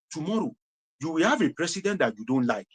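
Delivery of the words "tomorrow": tomorrow, echoed quietly. Real, not acted.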